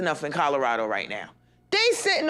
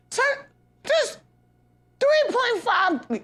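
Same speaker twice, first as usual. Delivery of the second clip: mock shopkeeper; 11 semitones higher, much slower than usual. Mocking a clerk's price.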